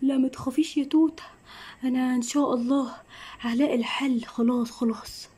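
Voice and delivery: father whispering comfort to his daughter; reassuring whisper. Acted. Father calming daughter secretly.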